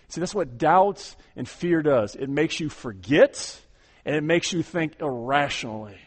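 ordinary talk

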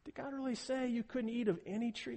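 usual speaking voice

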